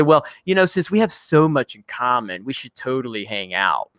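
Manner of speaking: lightly put-on eager sweetness; mock nice guy. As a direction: imitate an over-nice suitor. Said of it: "super nice and super sweet".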